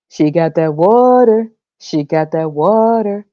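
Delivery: slow lightly voiced bragging man; mocking guy's boast. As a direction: drawl it like a bragging dude, slow. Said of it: "ask the guy what he wants".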